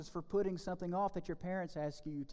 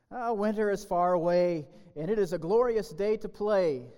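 louder, breezy careless grasshopper; carefree grasshopper; 7 dB louder than usual. Acted. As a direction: toss off the warning like a careless grasshopper. Carefree grasshopper voiced in fable.

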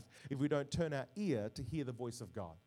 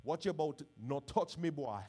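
mock Jamaican mother's accent; 3 dB louder than usual. Sarah confronting Abraham over her son, mock Jamaican accent. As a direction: put on a playful Jamaican accent. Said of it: "I don't know why Sarah turns Jamaican".

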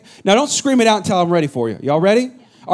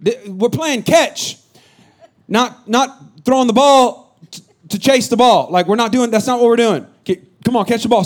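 irritated dad; 3 semitones higher than usual. Retold or imitated. Dad explaining catch to his son, irritated. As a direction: lay it out for the kid, annoyed. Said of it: "I'm like".

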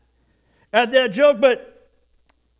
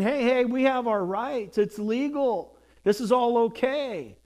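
entitled defiance; 2 semitones higher than usual. Retold or imitated. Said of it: "they were saying".

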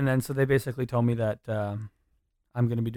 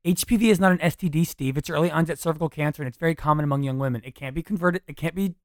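acting a scene; 4 semitones higher, 3 dB louder than usual. Shown as a demonstration. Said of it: "fuck, I had it so good when I did it".

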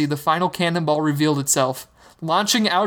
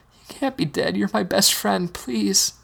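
begging; 5 semitones higher, slower than usual. Acted. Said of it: "he begged".

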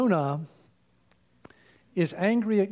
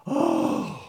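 melodramatic groan; 3 semitones lower than usual. Retold or imitated. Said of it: "he would always go".

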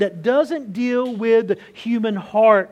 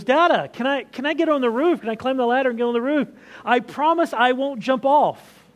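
put-on eager child; 4 semitones higher than usual. Eager son begging to climb.

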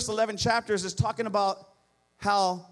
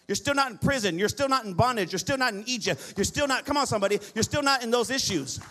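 raised, driving sermon cadence; preaching at full force; 2 semitones higher than usual. Real, not acted. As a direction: push every line home to the congregation.

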